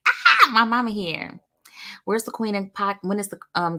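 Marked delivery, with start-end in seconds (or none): 0.1-1.4 excited outburst. Acted. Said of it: "now I'm getting like".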